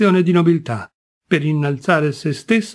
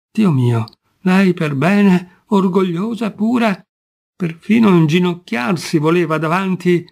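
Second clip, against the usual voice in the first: anguished lament; 3 semitones higher than usual. Acted. Kolpakov berating himself after the wife leaves, anguished and rising. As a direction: wail it out in self-reproach, voice climbing. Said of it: "s'afferrò la testa e gemette".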